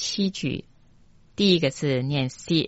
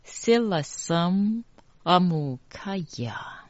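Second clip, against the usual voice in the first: whispered; 3 semitones higher than usual. Shown as a demonstration. Teacher whispers the mantra line as a repeat demo. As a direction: whisper 塞拉森阿姆卡亚 for the students to catch each syllable. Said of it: "再一次".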